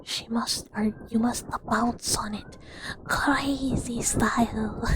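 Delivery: slow, drawn-out imitation of Count Orlov; a hint of the Count's voice; imitating Count Orlov. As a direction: stretch crazy style out slowly in his voice. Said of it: "I just think of Count Orlov".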